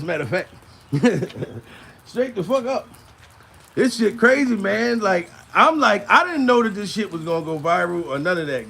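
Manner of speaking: ordinary talk, nothing marked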